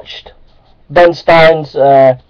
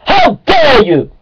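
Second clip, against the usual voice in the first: slow, shrill, very high how dare you; high outraged shriek; slower than usual. Acted. Creationist ranting at laughing evolutionists, high slow outraged shriek.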